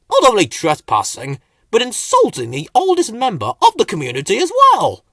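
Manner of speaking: put-on loud, fast indignant old-timer; grumbling. A narrator's reading. Slowcoach complaining after they leave, loud grumble. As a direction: grumble away at them. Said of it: "Slowcoach grumbled".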